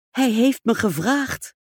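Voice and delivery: slow, high and triumphant; exclaiming. Acted. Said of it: "riep ze uit".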